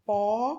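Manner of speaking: "polissílaba" pulled apart with pauses; silabado. Shown as a demonstration. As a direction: say "polissílaba" as po, li, sílaba. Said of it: "quando tem quatro sílabas". ("polissílaba" separado, com pausas entre as partes)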